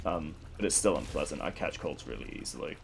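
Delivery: congested, blocked-nose voice; talking through a head cold; stuffy nose. Real, not acted. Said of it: "stuffy or if I sound a bit congested".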